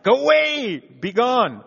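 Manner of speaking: half-laughing mock command to a pest; mock shooing. He shoos away his insecurity.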